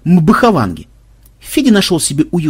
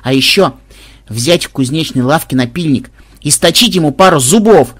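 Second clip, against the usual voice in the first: bloodthirsty glee; 4 dB louder than usual. Acted. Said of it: "кровожадно добавила внучка".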